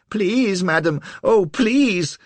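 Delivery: high, loud desperate pleading; near tears. A narrator's reading. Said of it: "on the verge of tears".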